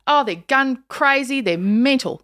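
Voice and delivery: lightly acted exclaiming grown-up, stressing the key words; imitating exasperated mum. Daughter quoting her mum on Americans, mock exasperated. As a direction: exclaim it like a mum passing judgement. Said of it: "every adult I knew used to go".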